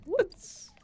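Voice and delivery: playful slow sing-song. Acted. Gamer psyching herself up.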